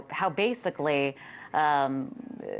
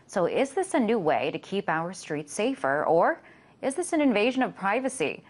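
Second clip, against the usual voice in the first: measured, lifted news-anchor delivery; polished TV news read; news introduction read; 3 semitones higher than usual. Acted. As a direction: read the story intro to camera with lively, rising-and-falling emphasis.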